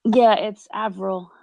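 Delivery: Avril said slowly and clearly as AV-ril; Avril, slow and deliberate, v not p; correct name pronunciation. Shown as a demonstration. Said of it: "how to properly pronounce your name".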